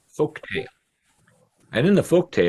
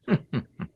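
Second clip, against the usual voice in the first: pigeon's mocking laugh; 7 semitones higher, 5 dB quieter than usual. A narrator's reading. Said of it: "the wild pigeon said".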